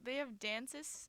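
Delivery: slow, dismayed disbelief; mildly appalled question; grossed out. Real, not acted. Hearing the college holds dances, sounding grossed out. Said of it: "Why are you sounding so grossed".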